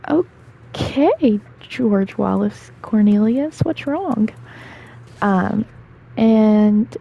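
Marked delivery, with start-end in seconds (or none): 0.1-4.3 imitating coaxing counselor. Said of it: "then she was like".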